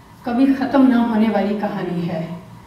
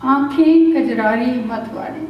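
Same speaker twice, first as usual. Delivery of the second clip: lilting recital with pauses, lines repeated for effect; love poem recitation; slower than usual. Acted. Poet reciting मैं और तू to listeners, tender recital. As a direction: savour each image as a romantic poem.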